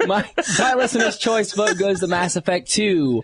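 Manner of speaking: high mock English accent after laughing; resume the hammy English impression; Jack Bauer. Host retrying the listener's vote after cracking up, mock English accent. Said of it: "My English Jack Bauer voice".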